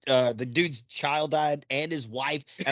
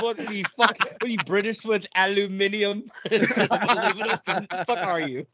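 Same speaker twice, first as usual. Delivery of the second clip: laughing mockery; 3 semitones higher, slower than usual. Real, not acted. Mocking while laughing.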